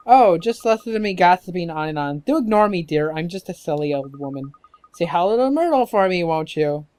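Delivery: put-on self-chiding old neighbour lady; dotty, apologetic old dear signing off; gossipy old woman.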